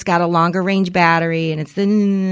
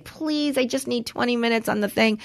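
pleading; 3 semitones higher, 8 dB quieter than usual. Retold or imitated. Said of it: "I was like".

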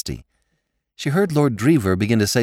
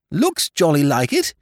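higher, lightly pompous lord's verdict; a hint of the judicial silly lord; judicial lordship; 7 semitones higher, 4 dB louder than usual. A narrator's reading. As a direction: pronounce judgment in a raised voice. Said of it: "said his lordship judicially".

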